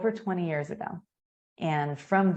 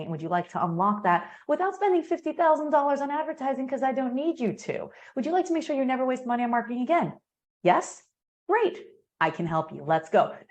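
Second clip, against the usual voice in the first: customer-focused pitch; 2 semitones higher than usual. Shown as a demonstration. Host demoing the good pitch, upbeat and eager. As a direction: warmly sell the benefit to the customer. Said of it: "But if it's like".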